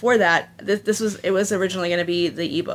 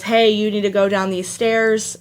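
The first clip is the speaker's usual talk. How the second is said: lightly voiced announcer, slightly slow and louder; a hint of a loud intercom voice, drawn out; half-acted announcement ringing out; mock intercom announcement; 2 semitones higher, 5 dB louder, slower than usual. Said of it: "big, loud, intercom-y type voice".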